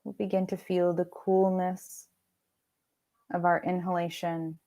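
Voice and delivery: unhurried meditation voice with long pauses; guided meditation. Acted. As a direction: lead them gently into rest, pausing between phrases. Leads guided meditation practice.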